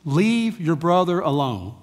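slow, controlled imitation of a parent's order; fed-up mom. Mom to child after yelling, slow fed-up order. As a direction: spell it out to a child, slowly. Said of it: "They had finally had enough".

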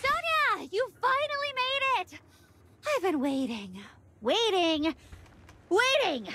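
gleeful greeting. Acted. Nara greets her sister gleefully, excited welcome. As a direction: relish the reunion.

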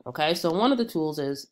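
stuffy nasal voice from a cold. Real, not acted. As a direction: speak through a blocked nose. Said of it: "excuse the nasal voice".

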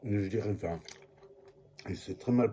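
talking through a mouthful; chewing while talking; mouth full. Real, not acted. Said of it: "me parler la bouche pleine".

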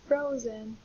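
FROZEN with long O, as froh-zen. Shown as a demonstration. Teacher confirming the answer, long-O pronunciation. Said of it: "will be a long".

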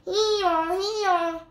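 high, loud hee-haw bray; donkey bray. Acted. Donkey brays again.

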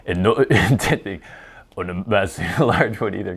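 put-on Scottish accent broken up by laughs; bad Scottish accent. Host failing at a requested reading, giggly shaky attempt at Scottish accent. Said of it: "I'm horrible at a Scottish accent".

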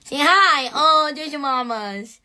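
high, slow doting coo. Real, not acted. Praising her dog on the live, slow high baby talk. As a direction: melt over the puppy, drawn out.

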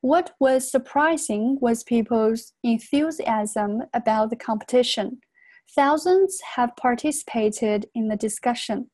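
slow, careful read-aloud for learners; slow model reading. Shown as a demonstration. Teacher models the passage for students, slow and careful. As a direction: read it out slowly, phrase by phrase. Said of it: "那我们接着再常速地读一遍".

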